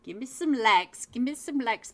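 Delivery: rally the chat, cheeky and loud; hyped plea. Real, not acted. Begging chat for likes.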